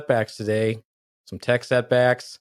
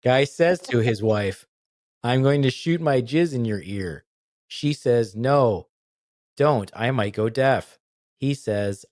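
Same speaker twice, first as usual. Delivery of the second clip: slow, halting joke delivery; deliberately bad telling; slower than usual. Telling a dumb joke badly on purpose, halting and slow. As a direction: tell it like you can't tell a joke. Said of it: "gonna have to tell these poorly".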